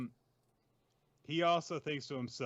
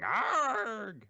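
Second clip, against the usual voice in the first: higher, louder writhing groan; mock pained groan; 10 semitones higher, 6 dB louder than usual. Host acting Shigaraki writhing in the cave, groaning. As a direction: groan in pain on the ground. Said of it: "writhing, going".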